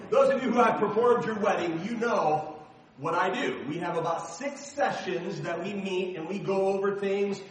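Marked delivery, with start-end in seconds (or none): 0.1-3.6 "performed" said clearly and firmly on the restart; confident restart of the phrase after a slip; corrected retake. Shown as a demonstration. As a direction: start over louder and get it right this time. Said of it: "there you go".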